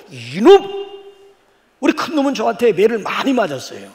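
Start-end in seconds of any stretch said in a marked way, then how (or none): 0.1-0.9 put-on sharp scolding yell at a child; mock scolding shout. 손주 혼내듯 호통치는 할아버지. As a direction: bark it like a scolding dad.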